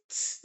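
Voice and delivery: "ts" as a bare consonant sound, no vowel; German Z sound. Shown as a demonstration. Teacher contrasts German Z with English Z, isolated "ts". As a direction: sound out "ts" as heard in pizza. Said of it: "whenever you see the Z in German".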